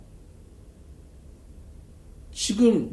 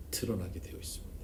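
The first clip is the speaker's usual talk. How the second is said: soft unvoiced whisper; whispered close; 3 semitones lower, 6 dB quieter than usual. Real, not acted. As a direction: drop to a hushed whisper. Sermon climax whispered. (속삭이듯 조용히 마무리)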